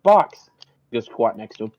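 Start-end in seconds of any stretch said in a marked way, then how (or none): 0.0-0.5 loud, high cry of greeting; high-pitched shouted hail; scream out. Acted. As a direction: yell out to Box in delight. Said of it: "scream out".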